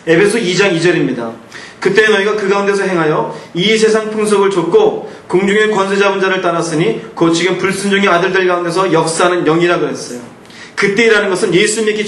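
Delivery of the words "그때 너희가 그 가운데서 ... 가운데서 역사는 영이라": measured reading of Ephesians; scripture reading. Acted. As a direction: read the verse aloud to the congregation. (성경을 또박또박 낭독)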